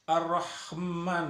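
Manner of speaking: "Ar-Rahman" drawn out slowly, the wrong way; mock the mistaken "Ar-Rahman"; wrong reading. Shown as a demonstration. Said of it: "Tidak boleh".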